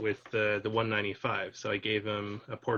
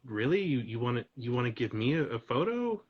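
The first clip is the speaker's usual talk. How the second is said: surprised lady; 3 semitones higher, 4 dB louder than usual. Retold or imitated. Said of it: "she's like".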